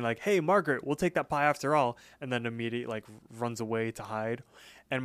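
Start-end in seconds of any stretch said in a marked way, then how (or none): 0.2-2.0 higher-pitched mock call into a kitchen; lightly imitated call to someone in another room. Mordecai calls in to Margaret for the pie, calling out. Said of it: "calls inside of the kitchen".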